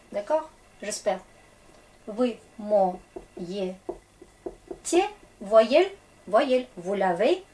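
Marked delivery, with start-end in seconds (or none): 2.1-3.8 Вы моете spoken very slowly, each syllable separate; slow pronunciation model. Shown as a demonstration. Teacher giving the Russian for vous lavez, very slow. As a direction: crawl through it so learners can copy. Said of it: "Vous, vous lavez".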